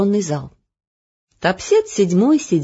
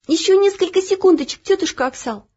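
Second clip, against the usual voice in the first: put-on higher girl's voice, pleading and drawn out; pleading drawl; 11 semitones higher than usual. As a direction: beg for a few more seconds. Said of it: "умоляюще протянула Оля". (умоляюще протянула)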